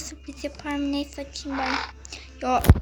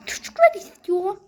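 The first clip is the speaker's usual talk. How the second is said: whisper; 5 semitones higher, 6 dB louder than usual. Acted. Pleading for the kids' toy.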